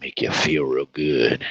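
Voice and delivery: whispering. Shown as a demonstration. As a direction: breathe it out like a secret. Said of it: "Maybe I can tone it down for you".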